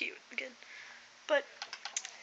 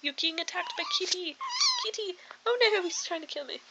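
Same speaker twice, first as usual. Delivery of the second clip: mock alarm; 5 semitones higher than usual. Play-acts being attacked by kitten.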